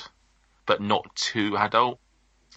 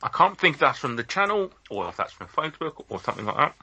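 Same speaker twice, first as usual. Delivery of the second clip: talking while chewing gum; 7 semitones higher than usual. Real, not acted. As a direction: chew gum as you speak. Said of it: "Sorry, I'm chewing gum".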